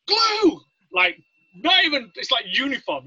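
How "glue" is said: high, loud crowd-style yell; mock group shout. Whole division naming the worst accent, gleeful shout. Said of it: "everyone goes".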